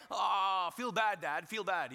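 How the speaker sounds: loud mock wail, then words; hammed-up whimpering kid; imitated crying. Son outside the door to dad, mock crying. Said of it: "you know, that kind of, uh, crying".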